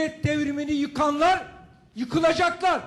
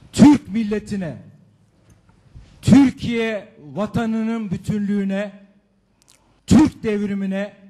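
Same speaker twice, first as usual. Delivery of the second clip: every word shouted slowly into the courtroom; slow loud declaration; 4 semitones lower, 4 dB louder than usual. Real, not acted. Defendant shouting slowly at the judge, loud and deliberate. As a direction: declaim it like a verdict of your own, loud and slow. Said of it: "Doğu Bey lütfen bağırma".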